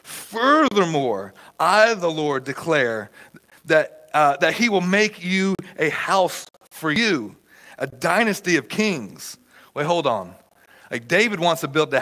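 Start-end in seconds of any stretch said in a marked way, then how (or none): 0.0-9.4 measured, declaiming Bible reading; scripture reading. Acted. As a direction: proclaim God's words deliberately, with weighty pauses. Reads scripture aloud.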